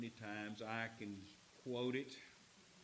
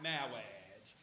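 drawn-out "mawwage" in a mock clergyman voice; movie priest's accent; 4 semitones lower, 4 dB quieter than usual. Preacher describing the movie's wedding priest, comic speech impediment. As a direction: stretch the word, turning r into w. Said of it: "he has this accent, and he goes".

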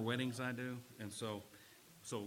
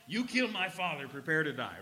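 Inigo Montoya; 3 semitones higher, 5 dB louder than usual. Acted. Preacher finishing a movie quote for the congregation, mock Spanish accent. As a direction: declare it in a playful Spanish accent. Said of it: "You gotta say it with his Spanish accent".

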